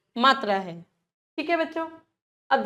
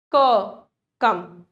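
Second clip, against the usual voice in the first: drawn-out demo; 4 semitones lower, much slower than usual. Shown as a demonstration. Teacher slowly sounding out कम for class. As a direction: stretch क कम out very slowly. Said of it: "अब देखिए, जैसे".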